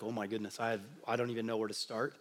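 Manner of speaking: overwhelmed murmur. Retold or imitated. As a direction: mumble it like a mind overloaded. Overwhelmed inner voice quoted.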